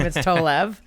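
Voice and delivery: "Tolev" said with a full V at the end; "Tolev" ending in a crisp V sound; correct pronunciation. Shown as a demonstration. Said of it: "That is not how you say my last name".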